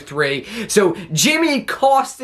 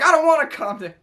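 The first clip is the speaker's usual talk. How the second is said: mock tantrum; 8 semitones higher, faster than usual. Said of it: "He's like".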